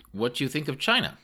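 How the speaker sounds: lightly voiced eager foreigner quizzing a visitor; loud foreign questioner. A narrator's reading. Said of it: "he spoke rather loudly".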